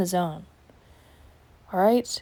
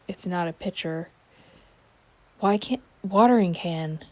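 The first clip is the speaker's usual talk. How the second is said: ordinary talk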